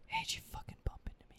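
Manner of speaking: unvoiced whispered frat bro threat; a mock frat boy whispering menace into the mic. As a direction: hiss the threat like a menacing ASMR video. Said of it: "he's whispering that".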